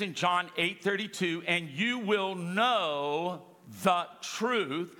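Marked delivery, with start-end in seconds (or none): 1.5-4.9 slow, weighty reading of the verse; slow scripture reading. Acted. Pastor reads John 8:32 to the church, slow and solemn. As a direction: read the verse slowly and solemnly.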